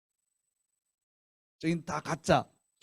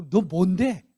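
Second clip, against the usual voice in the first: higher, slow, indignant challenge; heated retort; 8 semitones higher than usual. Retold or imitated. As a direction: demand who he thinks he is. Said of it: "말이 험악해지는 거지".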